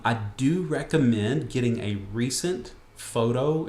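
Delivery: "recent" picked out with deliberate emphasis; stress on recent. Real, not acted. Presenter advising viewers on their photo, stressing "recent". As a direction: lean on the word "recent" in a slow line. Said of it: "I wanna stress that word recent".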